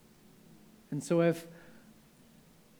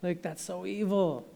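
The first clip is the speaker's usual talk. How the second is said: imagined anger; 5 semitones higher, 3 dB louder than usual. Pretend. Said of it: "He could have been angry and said".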